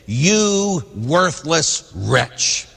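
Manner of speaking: slow, drawn-out stern rebuke; a master scolding a worthless servant, slowly. Acted.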